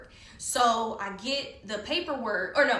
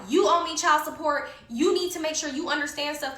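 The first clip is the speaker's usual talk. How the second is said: yelling; 5 semitones higher, 3 dB louder than usual. Retold or imitated. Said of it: "I'm yelling".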